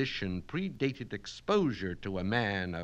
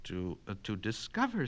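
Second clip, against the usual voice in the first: tearful; 4 dB quieter, faster than usual. Acted. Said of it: "said Miss Mitnick tearfully".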